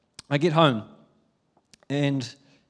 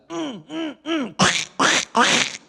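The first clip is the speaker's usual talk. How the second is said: much higher, pleading hum; whining toddler; 11 semitones higher, 4 dB louder, much slower than usual. Retold or imitated. Toddler pointing at dad's pocket, whining hum. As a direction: whine for the phone without words.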